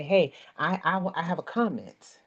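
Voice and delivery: stumbling, unsure try at breaking in; timid interruption demo, repeating I; hesitant. Shown as a demonstration. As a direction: falter over the I before the comment. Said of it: "See, this is how you have to break in".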